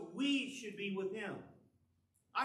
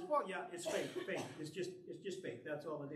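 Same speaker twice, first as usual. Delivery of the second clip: mock dismissive shrug; 3 semitones lower than usual. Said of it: "could be passed off just as".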